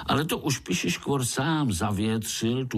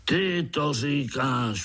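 raging; 5 semitones higher, slower than usual. Acted. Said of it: "vztekal se Piši škvor".

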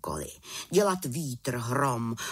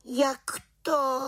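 offended; 12 semitones higher than usual. A narrator's reading. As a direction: take offence as the young witch. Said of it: "dotčeně se zeptala". (dotčeně, vysoko a hlasitěji)

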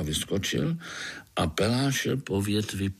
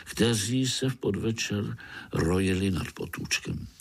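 ordinary delivery, nothing marked

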